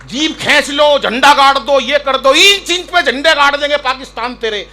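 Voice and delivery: loud, high parody of a war poet's rant; mock the empty bluster of a fiery poet; mock heroic poet. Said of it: "वरना वीर रस के कवि".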